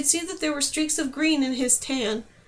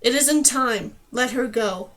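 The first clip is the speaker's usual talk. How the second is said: firm, somewhat louder command; 3 dB louder, slower than usual. Acted. Antlered man ordering her return, firm command. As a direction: lay down the order calmly. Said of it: "The man's voice was commanding".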